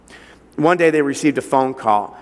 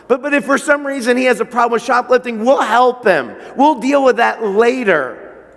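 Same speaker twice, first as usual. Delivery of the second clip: pleading parents; 6 semitones higher than usual. Pretend. Parents telling prosecutor they just want their son home, urgent plea. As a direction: make them desperate to get their boy back.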